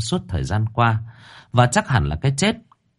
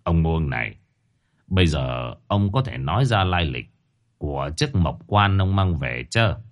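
softer, lower, unhurried question; calm and measured; 5 semitones lower, 3 dB quieter than usual. A narrator's reading. Shaman gently asks Muông about the coffin, calm and measured. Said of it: "từ tốn".

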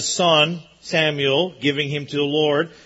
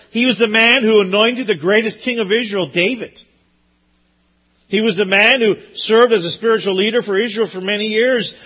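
rising preaching climax; 5 semitones higher, 6 dB louder than usual. Real, not acted. Sermon climbs to climax.

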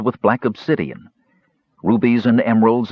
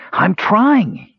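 high, strained protest; high-pitched, effortful cry; frantic gasp; 11 semitones higher, 4 dB louder than usual. A narrator's reading. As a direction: protest under pressure, pitch shooting up. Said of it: "Earwig gasped".

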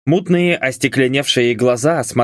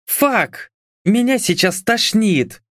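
much higher, squeamish blonde voice; disgusted nausea; 10 semitones higher, slower than usual. A narrator's reading. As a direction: recoil as if about to be sick. Disgusted woman turns away.

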